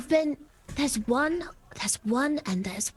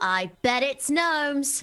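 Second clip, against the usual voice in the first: very slow, drawn-out, overly delighted, way too happy. Guessing the worms' favorite food in character: way too happy. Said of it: "you said that way too happily".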